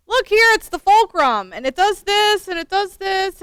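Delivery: put-on high, loud little boy showing off; eager child with a Wisconsin lilt; squeaky kid voice. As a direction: demonstrate it like a proud five-year-old. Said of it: "he had a much squeakier voice than that".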